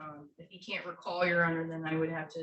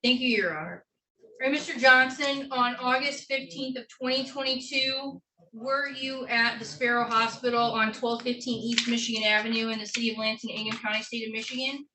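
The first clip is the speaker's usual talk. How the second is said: in a courtroom; 4 semitones higher, 6 dB louder than usual. Real, not acted. Attorney questioning defendant in court.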